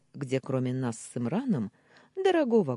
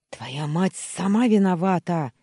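loud, raised-pitch accusation; angry yell; 4 semitones higher, 8 dB louder than usual. A narrator's reading. Uncle blames the mother, angry yelling. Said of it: "заорал дядька".

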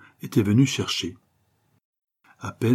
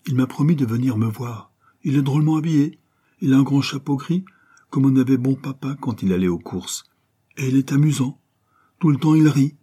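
put-on eager child's voice, a touch higher; a small boy gushing about his new friend; little boy; 4 semitones higher than usual. Petit garçon raconte son nouvel ami à maman, voix enfantine enjouée.

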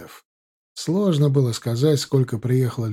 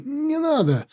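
even higher desperate plea; 13 semitones higher, slower than usual. A narrator's reading. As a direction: beg harder, voice cracking up high. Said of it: "простонал раненый".

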